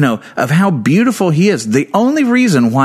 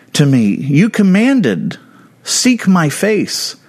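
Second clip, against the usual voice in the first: slow rising plea; 4 semitones higher, slower than usual. Acted. David quoting God.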